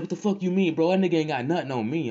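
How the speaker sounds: 1 mock offended friend.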